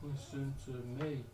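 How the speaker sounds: quiet read-through. Shown as a demonstration. Rapper showing where the break falls, quietly. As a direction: mark the hook softly, unperformed. Reading the hook off paper.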